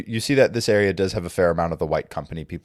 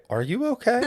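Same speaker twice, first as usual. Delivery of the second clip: incredulous NPC look; 3 dB quieter than usual. Acted. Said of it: "gives you a look as though to say".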